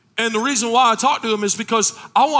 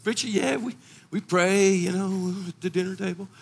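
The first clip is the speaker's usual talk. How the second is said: mock churchgoer; 6 dB quieter than usual. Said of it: "There'd be a lot of people".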